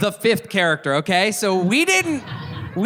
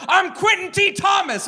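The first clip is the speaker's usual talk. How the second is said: booming self-introduction; 13 semitones higher than usual. Retold or imitated. Stranger introduces himself, shouting.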